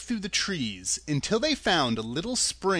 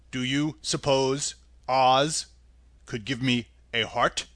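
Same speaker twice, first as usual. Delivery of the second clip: Tin Woodman voice; 3 semitones lower, slower than usual. Acted.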